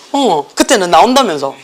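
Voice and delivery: normal talking voice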